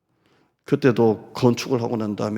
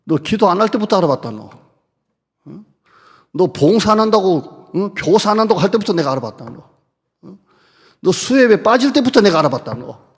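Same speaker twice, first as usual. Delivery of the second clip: louder, fast berating of a slacker; mock scolding; 6 semitones higher, 6 dB louder than usual. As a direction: scold him like a fed-up master. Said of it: "나는 그랬을 것 같아요".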